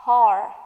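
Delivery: "Har" sounded out with an open ar, no final t; letter-string sound. Shown as a demonstration. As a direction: say "Har" as heart cut before the t. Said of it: "What is the sound".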